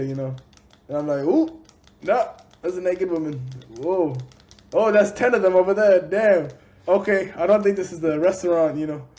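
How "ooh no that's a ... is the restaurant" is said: raised, mock-startled double take; retold startled realization. Man recounting his red light district mistake, in comic surprise. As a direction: replay the dawning shock for laughs.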